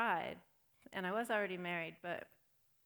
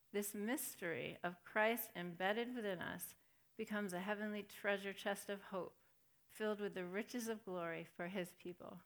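scripture reading. Acted. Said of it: "reading scripture aloud slowly".

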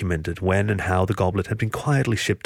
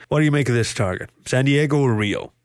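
casual question in a character voice; lightly voiced, casual teammate; 4 semitones higher than usual. A narrator's reading. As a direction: ask it offhandedly. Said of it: "Boris said casually".

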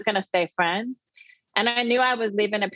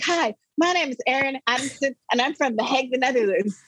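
eager greeting; 4 semitones higher than usual. Retold or imitated. Eager teen greeting new roommates.

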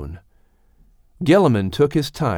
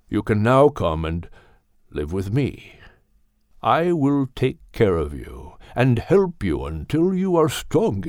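put-on wise old Gilliman. Gilliman offers a home.

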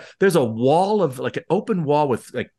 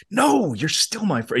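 pleading insistence; 6 semitones higher, slower than usual. Retold or imitated. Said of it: "shook him and like".

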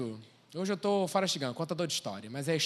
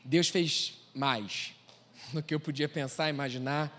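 hushed reverent; 4 semitones lower, 4 dB quieter, slower than usual. Real, not acted. Testimony, hushed reverent moment.

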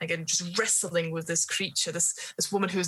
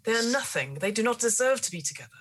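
higher, sharp dismissive retort; scornful rebuke; 5 semitones higher, faster than usual. Acted. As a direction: cut her down with contempt. Gardener rebukes the lady.

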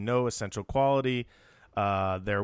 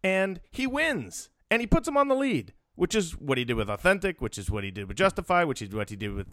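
high-pitched points, softening into a list; soapbox speech; 7 semitones higher than usual. Pretend. Host defending a winning trainer from the soapbox, insistent. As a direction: press each point, stretched out and insistent. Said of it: "can I do Soapbox Billy".

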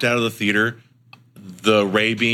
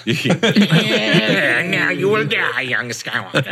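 high cackling Palpatine impression; booming echoing villain monologue; 4 semitones higher, much slower than usual. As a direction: cackle and gloat like the Emperor. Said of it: "wasn't Palpatine's".

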